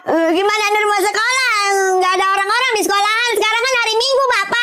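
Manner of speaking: high, tearful whine; crying complaint. Acted. Child back from empty school, tearful complaint. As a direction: complain through tears to your dad. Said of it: "Kok nangis?".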